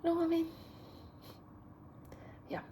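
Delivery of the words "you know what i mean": high, mock northern "You know what I mean?"; a light northern lilt on the phrase; lightly put-on northern accent. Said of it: "a very northern thing to say".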